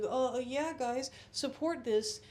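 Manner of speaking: high, loud, slow mocking fake endorsement; mock sellout. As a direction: sneer it like a smug paid shill.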